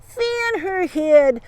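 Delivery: high, very drawn-out bully roar. A narrator's reading. Bugs mocks Fanchon's accusation, roaring. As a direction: bellow it slowly, stretching every word. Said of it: "Bugs roared".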